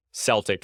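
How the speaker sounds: "Celtic" as SELL-tick. Real, not acted. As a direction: begin "Celtic" with an S sound. Team name after pronunciation talk.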